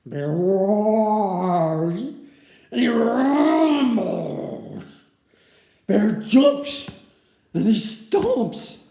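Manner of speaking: roaring loud. Acted. Bear rages loudly.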